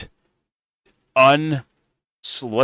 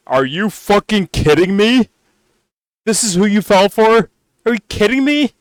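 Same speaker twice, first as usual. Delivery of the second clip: higher and louder, incredulous ranting; 1 exasperated rant; 4 semitones higher, 4 dB louder than usual. Real, not acted. Streamer ranting at the fans, exasperated and loud. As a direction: vent your disbelief at the fans, voice climbing.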